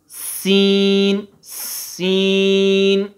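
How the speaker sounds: سین with a long hissing س; clear seen. Shown as a demonstration. Teacher introducing a letter, سین drawn out. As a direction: stretch the س of سین. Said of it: "س، یہ آواز آ رہی ہے".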